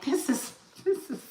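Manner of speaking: high squeaky laughing-crying talk. Retold or imitated. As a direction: squeal it through helpless laughter. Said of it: "And I just cried".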